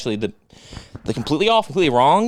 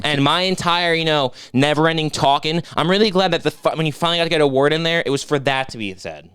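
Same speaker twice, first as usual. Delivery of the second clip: sarcastic gratitude; sarcasm; 3 semitones higher than usual. Acted. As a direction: thank him but make it sting. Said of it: "your tone says otherwise".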